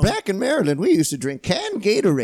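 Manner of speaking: posh lady voice. Pretend. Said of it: "You sound like fucking Jackie Bouvier".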